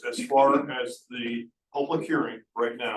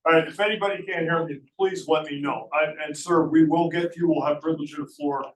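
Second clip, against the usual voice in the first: louder, raised public-meeting voice; speaking up; 3 semitones higher, 5 dB louder than usual. Real, not acted. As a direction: project so everyone can hear. Speaking up after hearing complaint.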